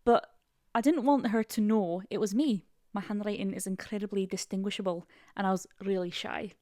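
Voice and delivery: attempted Scottish reading voice; Scottish accent. Co-host reading a crush story, Scottish accent. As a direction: read it out in Scottish. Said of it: "I wanna do one in Scottish".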